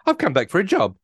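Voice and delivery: mock-defiant woman reclaiming her place; defiant Shirley. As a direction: stand your ground and tell him straight. Shirley standing up to Costas.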